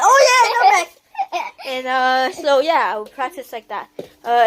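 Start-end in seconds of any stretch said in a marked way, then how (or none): 0.0-1.5 laughing yell. Real, not acted. Yelling, laughing at kid.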